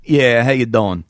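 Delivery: cocky New York radio caller; New York accent. Acted. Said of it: "me doing a New York accent".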